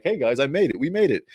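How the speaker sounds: high-pitched, light imitation of triumph; mildly triumphant announcement. Character popping into the vault to tell the guys, imitated excitement. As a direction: pop up announcing your success, playfully mimicked.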